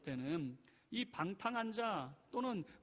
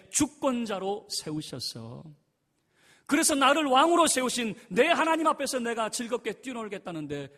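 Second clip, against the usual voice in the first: 하나님이 hit much louder and higher; forceful reply; 7 semitones higher, 12 dB louder than usual. Retold or imitated. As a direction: declare it to her with full force. David answers Michal. (다윗이 미갈에게 큰 소리로 반박)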